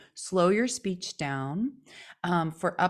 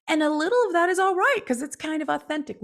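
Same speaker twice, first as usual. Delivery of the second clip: put-on Valley Girl upspeak; 9 semitones higher, faster than usual. Shown as a demonstration.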